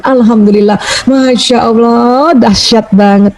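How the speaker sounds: high-energy praise. Shown as a demonstration. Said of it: "intonasi "Masya Allah" ... energinya tinggi".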